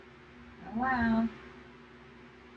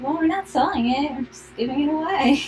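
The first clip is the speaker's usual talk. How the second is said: restaurant owner voice; 4 semitones higher, faster than usual. Retold or imitated. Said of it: "So they're like".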